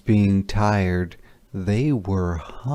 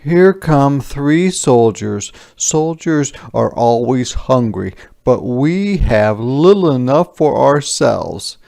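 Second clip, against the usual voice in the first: higher and louder, a touch anxious; worried peasants; 4 semitones higher, 6 dB louder than usual. Acted. Peasants warning each other of soldiers, lightly anxious voice. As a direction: warn the neighbours.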